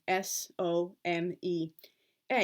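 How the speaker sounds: spelled out slowly. Shown as a demonstration. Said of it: "I write them as".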